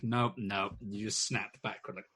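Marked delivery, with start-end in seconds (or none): 0.0-0.8 startled nope. Retold or imitated. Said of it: "you're like".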